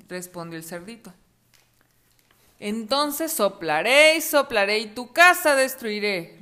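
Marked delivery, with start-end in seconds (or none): 2.6-6.4 slow, menacing wolf threat; slow growling wolf, a touch hammed-up; wolf roar. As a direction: draw out the threat like a big bad wolf. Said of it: "rugió el lobo".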